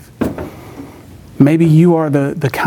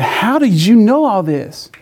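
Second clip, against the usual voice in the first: acted disbelief; 6 semitones higher, slower than usual. Acts baffled friends questioning him.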